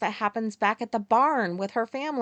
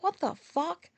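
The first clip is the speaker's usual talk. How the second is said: higher-pitched shocked reaction; recoil, pitch lifted in disbelief; appalled disbelief; 7 semitones higher, slower than usual. Retold or imitated. Retold shock at grisly details.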